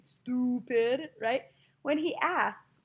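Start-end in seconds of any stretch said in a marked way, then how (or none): 0.0-1.1 "Stupid" with exaggerated, stretched vowels; drawn-out vowels. Teacher imitating the mocking friend, "Stupid" with stretched vowels. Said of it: "he's doing the same thing".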